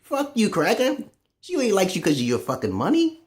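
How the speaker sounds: high retold outburst at the cracker; imitating his angry comeback; mock angry retort. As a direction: fling it at him, half-joking. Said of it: "I'm like".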